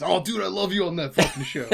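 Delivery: Impression of a rock bassist. Acted. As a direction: do a jokey rock bassist's voice. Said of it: "That's my rock bassist".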